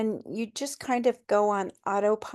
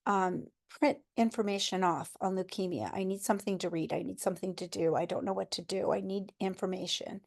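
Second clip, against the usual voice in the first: pleading quietly; 5 dB quieter than usual. Retold or imitated. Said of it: "I started asking them".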